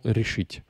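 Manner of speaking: решить stressed on its last syllable, -ить; stress on ending. Shown as a demonstration. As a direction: put the weight on the ending of решить. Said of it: "c'est tout le temps sur la terminaison".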